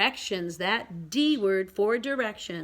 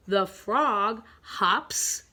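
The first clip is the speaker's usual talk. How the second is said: drawn-out, word-by-word reading; slow read-along; much slower than usual. Shown as a demonstration. Teacher reads the next picture to pupils, slowly. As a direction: read slowly so beginners can follow.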